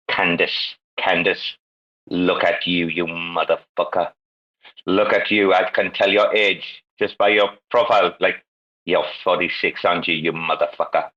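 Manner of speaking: lightly voiced scornful Indian man; Kumar. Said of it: "he was talking to this woman".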